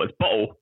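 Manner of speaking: bottle said with a glottal stop, no T. Shown as a demonstration. Mimicking English people, glottal-stop bottle. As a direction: drop the T in bottle. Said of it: "if there's no T's at all".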